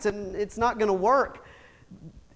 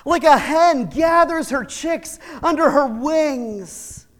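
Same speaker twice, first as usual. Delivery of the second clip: Jesus lamenting; 4 semitones higher than usual. Acted. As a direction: cry out over the city, then ache slowly. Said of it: "he ends this rant and he says".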